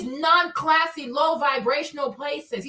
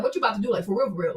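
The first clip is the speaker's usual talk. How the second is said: low mock man's voice, lightly done; imitating the man; 6 semitones lower, 4 dB quieter, much faster than usual. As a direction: lightly mimic his come-on, dropping low. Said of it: "he's acting like".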